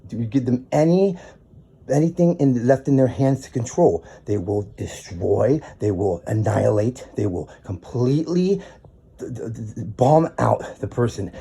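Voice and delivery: spitting it out in real anger; angry outburst. Real, not acted. Furious rant about his landlord.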